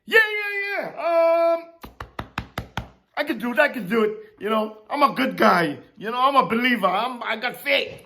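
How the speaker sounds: breezy mock self-assurance, rattled off fast; mock cocky. Mocking a casual answer to God. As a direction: brush it off like a smug believer. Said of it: "No, that wasn't his cry".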